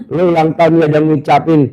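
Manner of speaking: fast, teasing throw-back of the complaint; quick sarcastic repeat; mocking echo. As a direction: rattle it back at him, mocking. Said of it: "Gue bilang gitu".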